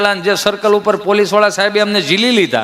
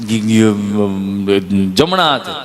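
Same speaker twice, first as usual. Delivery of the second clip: low, drawn-out stammering answer; nervous stammer; 12 semitones lower, much slower than usual. Retold or imitated. Villager stammering his answer to the nurse, low and slow. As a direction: stumble over the words in fright.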